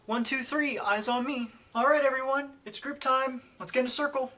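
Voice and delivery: high, loud, sing-song call to the class; rally little kids for circle time; kindergarten teacher voice. Acted. Preschool teacher calls group time.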